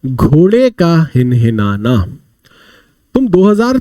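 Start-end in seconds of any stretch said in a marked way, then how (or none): 0.1-2.2 slow and deliberate. Shown as a demonstration. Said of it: "ने का मतलब क्या होता है".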